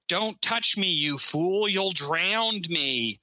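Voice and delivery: put-on terrible Scottish accent, high and drawn out; Christopher Lambert. A Highlander actor protesting on the boat, terrible Scottish accent. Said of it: "terrible. Like, that's his Scottish".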